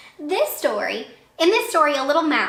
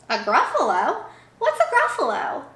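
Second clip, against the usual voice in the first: surprised fox; 3 semitones higher than usual. Acted.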